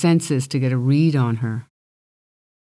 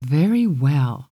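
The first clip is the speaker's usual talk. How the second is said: reluctant giving in; slower than usual. Acted. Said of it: "She sighed".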